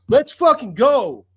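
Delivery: high, loud and slow; real all-out cheer; triumphant yell. Real, not acted. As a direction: drag it out as a victory roar. Fan celebrating draft lottery win.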